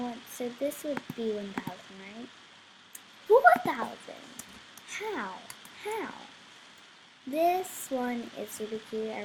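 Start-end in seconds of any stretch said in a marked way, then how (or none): 3.3-6.1 high, loud disbelief at the price; real surprise, much higher and louder; shocked outburst. Real, not acted. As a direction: blurt it out, stunned.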